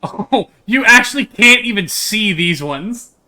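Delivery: slow, loud words broken by laughter; laughing. Real, not acted. Streamer laughing at the blurry ditchlings, loud and slow. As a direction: laugh it out in disbelief. Laughing at the old-age view.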